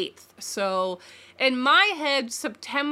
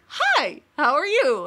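mock sweet greeting; 4 semitones higher, 4 dB louder, slower than usual. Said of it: "I walk up to him and I'm like".

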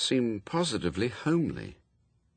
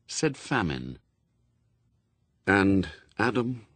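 ordinary delivery, nothing marked

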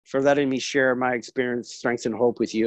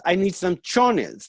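imitating mom, higher and slow; lightly voiced mom, stretching the request; requesting mother; 5 semitones higher, slower than usual. Mother asks her son for underwear, mildly coaxing. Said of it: "She goes".

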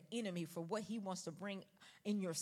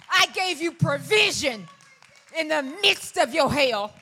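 loud, slow and higher, hammering it home; slower, bigger preaching; 7 semitones higher, 22 dB louder, slower than usual. Acted. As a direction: slam the repeated line home. Repeats the line harder.

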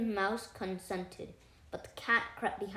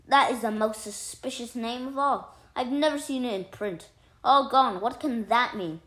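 loud, higher-pitched bafflement; suspicious disbelief; 4 semitones higher, 7 dB louder than usual. A narrator's reading. Mouse doubts the third child's name, baffled. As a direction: puzzle over it aloud, voice raised.

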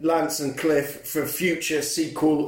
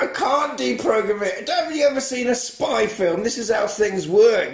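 higher-pitched indignant retort; mock exasperation; 5 semitones higher than usual. Villain explaining spy films to the hero, mock exasperated. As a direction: protest it high, as if it's obvious.

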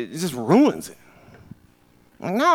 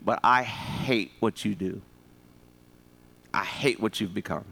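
quiet firm mother; 7 semitones lower, 6 dB quieter than usual. Retold or imitated. Mother to her son, low and quiet. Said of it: "she said".

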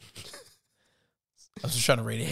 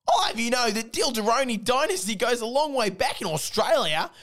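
defensive Dildo; 9 semitones higher than usual. Acted. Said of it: "He's getting defensive here".

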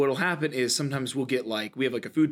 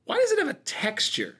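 much higher, laughing disbelief; surprised question; 12 semitones higher than usual. Retold or imitated. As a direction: ask it with a laughing squeak. Retold disgusted question.

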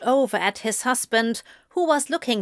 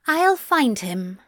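firm; 3 semitones higher than usual. A narrator's reading. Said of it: "Zira stated firmly".

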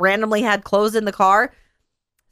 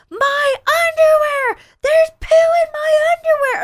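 put-on crying child wail; 3 dB louder than usual. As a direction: wail it like a sobbing little boy. Son crying out, retold.

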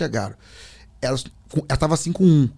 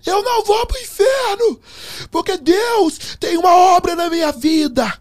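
high-pitched fervent yelling; shouting in ire; 3 dB louder than usual. Retold or imitated. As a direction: cry it out like a defiant prayer. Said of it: "Gritando no quarto hotel".

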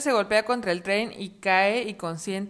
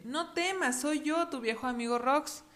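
fox voice; 6 semitones higher than usual. Acted. Voz del zorro.

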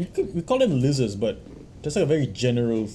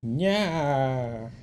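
lightly voiced old-movie villain; drawn-out mock gangster drawl; fifties gangster; 2 semitones higher than usual. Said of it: "channel, like, a nineteen fifties villain".

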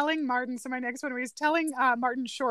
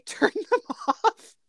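ordinary talk, nothing marked

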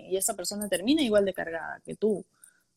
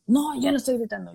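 defensive shout; 5 semitones higher, 6 dB louder, faster than usual. Pretend. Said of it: "te empiezas a a gritar".

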